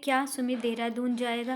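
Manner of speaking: "क्या" stressed to open a question; questioning tune. Shown as a demonstration. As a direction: ask it, leaning on "क्या". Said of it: "क्या लग गया तो प्रश्न सूचक हो गया".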